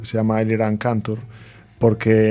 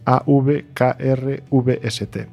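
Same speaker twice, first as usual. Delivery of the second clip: spelled out letter by letter; 3 semitones higher, much slower than usual. Shown as a demonstration. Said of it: "os lo voy a deletrear".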